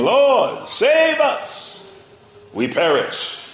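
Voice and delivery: high, loud desperate plea; panicked cry. Acted. Frightened disciples begging Jesus to save them, loud and high. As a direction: cry out over the storm.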